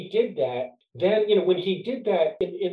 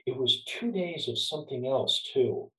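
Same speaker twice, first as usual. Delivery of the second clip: a touch quieter, leaning in confidentially; lightly lowered voice, as if sharing a secret; retold quiet remark; 5 dB quieter than usual. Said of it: "he said quietly".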